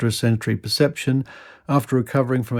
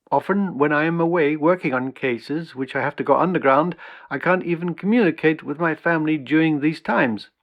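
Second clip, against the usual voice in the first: put-on rough approximation of a Dutch accent, pitched up; higher-pitched imitation Dutch accent; heavy Dutch accent; 4 semitones higher than usual. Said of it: "in his heavy Dutch accent".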